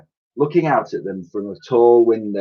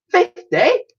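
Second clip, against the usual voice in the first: very high squeak of disbelief; astonished echo; 3 dB louder than usual. A narrator's reading. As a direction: gasp out the number.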